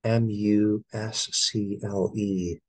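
"A L T E R N A T I V E" spelled out one letter at a time. Shown as a demonstration. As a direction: read "A L T E R N A T I V E" as separate letters.

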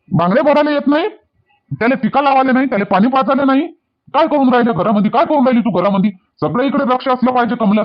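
worked-up household scolding. Acted. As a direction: scold her with question after question. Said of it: "आरामानं बोला ना, तुम्ही हळूहळू बोला".

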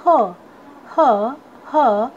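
ह as a lone "huh", repeated; phonic letter sound. Shown as a demonstration. Teacher showing students the sound of H, phonic letter sound. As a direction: sound out ह as H starts "hen". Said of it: "एच का sound होता है".

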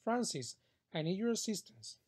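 Francis called out high, then a lifted request. Shown as a demonstration. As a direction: lift the voice on Francis. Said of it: "Like the difference is".

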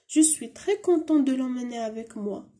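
slow full sentence; teacher reading the sentence for the pupils; slow model reading. Shown as a demonstration. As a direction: read the whole line slowly. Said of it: "أنا سعيد لأخذ".

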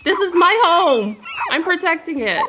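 playful dog voice staking its turf; a pet's pretend bark of a speech; dog's mock guard voice. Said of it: "He's like".

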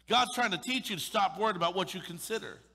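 full-force preaching repeat; forceful preaching. Real, not acted. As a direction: drive the point home.

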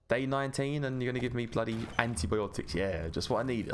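mock-grateful grumble; sarcastic. Real, not acted. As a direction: complain with heavy irony. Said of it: "I was being sarcastic".

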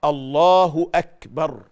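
loud, drawn-out takbir with an audible k release in "أكبر"; correct takbir. Shown as a demonstration. Teacher modelling sound pronunciation, slow loud takbir with breathy k in "أكبر". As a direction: stretch "الله" and puff the ك in "أكبر". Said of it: "وفي سلامة نطق".

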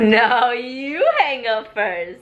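giggly late night call. Pretend. Mock lovers' hang-up game.

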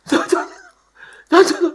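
imitating a lost voice, high and strained; mock voiceless friend, high strained rasp; voice gone airy. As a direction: squeeze out an airy croak with only breath. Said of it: "കാറ്റ് മാത്രമേ വരുന്നുള്ളൂ".

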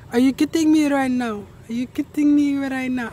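lightly imitated Kenyan accent; a fond go at a Kenyan accent. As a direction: mimic a husband's Kenyan accent. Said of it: "I love the Kenyan accents. They're like, he's like".

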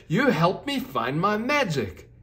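put-on a grateful unicorn thanking the girl; beaming thank-you; overjoyed. Unicorn overjoyed, found her magic.

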